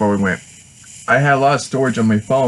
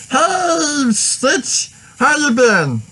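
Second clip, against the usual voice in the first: high, squeaky alien voice, raised a lot; Stitch voice; much slower than usual. Retold or imitated. Greeting the Stitch mascot in his own high alien voice. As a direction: greet the mascot like the little blue alien would. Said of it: "I did my Stitch voice".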